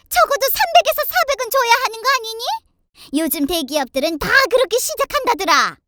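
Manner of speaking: scornful scolding that climbs high; haughty angry mother-in-law. Acted. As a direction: belittle your daughter-in-law indignantly. Mother-in-law berates daughter-in-law. (며느리를 무시하며 쏘아붙이는 시어머니)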